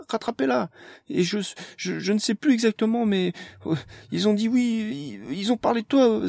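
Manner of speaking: high breathless panic, stumbling; frightened girl barely getting words out; panicked. A narrator's reading. Amélie tells Zarfolk in panic.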